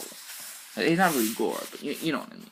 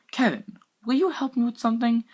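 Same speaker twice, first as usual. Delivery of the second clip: thoughtful; 12 semitones higher, 3 dB louder than usual. Acted. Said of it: "I asked thoughtfully".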